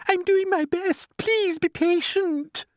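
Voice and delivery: high, slow pleading voice; poor glowworm. Acted. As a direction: ask for patience, slowly and high. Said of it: "answered the poor glowworm".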